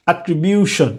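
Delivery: "অ্যাট্রিবিউশন" with no puff of air on the T; unaspirated T. Shown as a demonstration. Teacher showing an unstressed syllable, "অ্যাট্রিবিউশন" with unaspirated T. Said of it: "এই টিটা কিন্তু aspiration হলো না".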